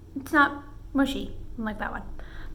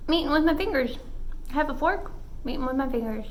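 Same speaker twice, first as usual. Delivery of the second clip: talking through a mouthful; mouth full; much faster than usual. Real, not acted. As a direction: speak while chewing. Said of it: "Talking with my mouth full".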